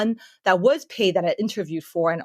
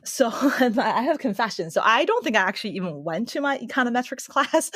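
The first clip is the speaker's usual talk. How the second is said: laughing confession; 4 semitones higher than usual. Real, not acted. Confessing to skipping class.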